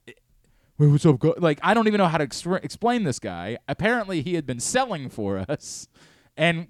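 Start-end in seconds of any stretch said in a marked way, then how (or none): 0.0-1.4 put-on New York accent. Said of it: "he was a thick New York accent".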